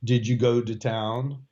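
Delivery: "Did you go to town?" slow, going up on "town"; English question intonation. Shown as a demonstration. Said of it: "you kind of go up at the end".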